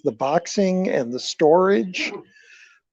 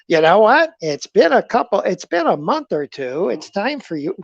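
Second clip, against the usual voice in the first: imitating brother; 4 semitones higher, 3 dB louder than usual. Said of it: "He doesn't talk like that. I talk like that".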